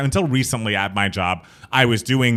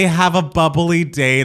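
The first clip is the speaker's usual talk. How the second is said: slow, bright, louder mock-cheerful sign-off; enthusiastic; 5 semitones higher, 4 dB louder, slower than usual. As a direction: sell it like a peppy customer-service chirp. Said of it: "as enthusiastically as you just stated it".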